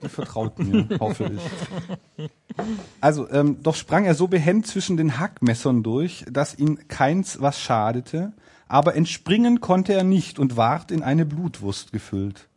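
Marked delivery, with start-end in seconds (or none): 3.6-12.5 measured, deliberate storybook reading; fairy-tale narration. A narrator's reading. Narrator telling of the escape between cleavers, storytelling. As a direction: tell it like an old folk tale.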